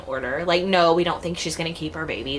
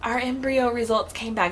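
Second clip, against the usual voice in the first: emotional announcement; 6 semitones higher than usual. Retold or imitated. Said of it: "I was like".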